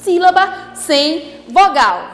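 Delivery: "não existe sílaba sem vogal" bem pausado; devagar e enfático. Shown as a demonstration. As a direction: fala lenta para fixar a regra. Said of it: "Preste atenção". (professora frisando a regra devagar)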